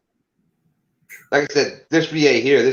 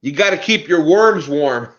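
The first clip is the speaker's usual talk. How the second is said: 1 laughing punchline; 5 semitones higher, 4 dB louder than usual. Retold or imitated. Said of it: "I go".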